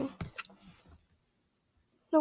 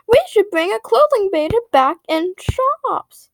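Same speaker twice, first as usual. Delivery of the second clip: slow, higher, mock-grand announcement; mock company boss; 5 semitones higher, slower than usual. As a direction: announce the dumb plan like it's genius. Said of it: "they're like".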